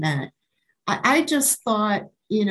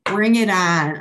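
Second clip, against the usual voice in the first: bold challenge; 5 dB louder than usual. Retold or imitated. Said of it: "I'm like".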